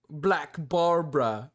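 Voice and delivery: put-on slow, half-hearted try at the YouTuber's accent on Black Barbara; failed accent imitation. Streamer botching the YouTuber's accent, slow and half-hearted. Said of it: "I can't do his accent".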